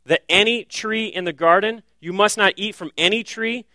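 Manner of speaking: "any" leaned on in the serpent's twisted question; stress on any. Shown as a demonstration. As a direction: hit "any" each time it comes. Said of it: "Did you catch that subtle nuance there?".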